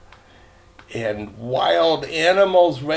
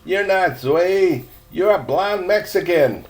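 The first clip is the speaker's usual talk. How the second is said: put-on merry girl voice; 4 semitones higher, 3 dB louder than usual. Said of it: "laughed merrily".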